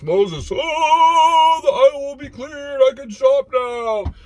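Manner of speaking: hammed-up wonder at the parted aisle; overjoyed shopper marvelling, loud and high; mock awe. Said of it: "The aisle will clear like Moses".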